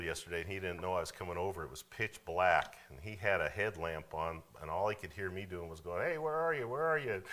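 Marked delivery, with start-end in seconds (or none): 6.0-7.2 re-enacted calling out. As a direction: mimic calling for someone in the dark.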